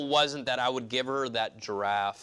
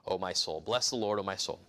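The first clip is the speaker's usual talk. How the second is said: scripture reading. Shown as a demonstration. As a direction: read it as solemn scripture. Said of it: "verse number one".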